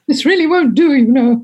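mock-royal English accent, half-giggling; Princess Margaret accent. Host recalls putting off a threatening man, in a Princess Margaret accent. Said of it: "put on my best Princess Margaret accent".

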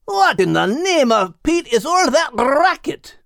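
jolted awake and indignant; startled. Acted. Dog Max woken by the rooster, startled. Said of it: "asked a very startled Max".

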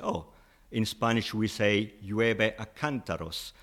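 llueve a cántaros said slowly in Spanish; Spanish idiom. Shown as a demonstration. Teacher gives the Spanish idiom slowly to the host. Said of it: "you say".

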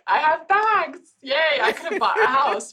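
high, laughing mock boast; giggly, hammed-up pride in a bag collection; mock giddy. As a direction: squeal it like a shopaholic showing off.

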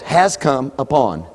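"Has come upon" slow and deliberate; slow weighted "Has come upon"; slow stressed phrase. Shown as a demonstration. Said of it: "Three words".

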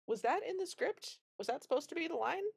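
high, rushed confusion; a bewildered actor checking the script; lightly voiced flustered actor; baffled actor. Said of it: "looking at the director like".

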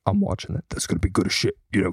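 lightly imitated Joe Rogan hyped up; a hint of Joe Rogan getting excited. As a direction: mimic Rogan's enthusiastic podcast talk. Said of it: "Joe Rogan kinda talks like this".

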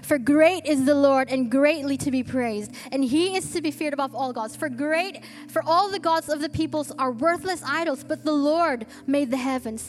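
measured, solemn reading of the psalm; scripture reading. Acted. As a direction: read it to the church with reverence. Reads scripture aloud.

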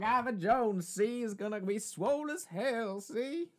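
high cartoon tough guy; hammed-up high gangster. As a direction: brag like an old-movie gangster. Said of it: "I don't know why he's now Southern".

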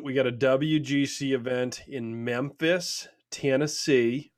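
put-on slow drawled Southern accent. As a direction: stretch it out Southern style. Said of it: "You do the same accent for every".

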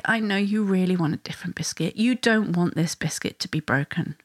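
soft, gentle reflecting back; empathetic. Shown as a demonstration. Parent reflecting back what the child says, empathetic. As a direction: acknowledge it softly and evenly. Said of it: "you want to offer empathy".

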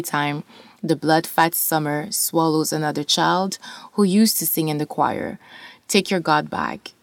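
measured spoken word reading; poetry reading. Acted. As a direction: read the poem with weight. Reads poem aloud.

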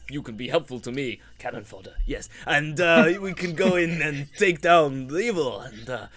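hammed-up bad Russian accent; scheming villain in a Russian accent; Zoe's Russian accent. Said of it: "I'll try and do my Russian accent again, uh, terribly".

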